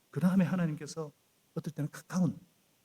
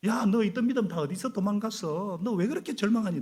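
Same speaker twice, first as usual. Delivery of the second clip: mock scolding; 7 semitones higher, 4 dB louder than usual. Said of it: "꾸짖지 않으시잖아요".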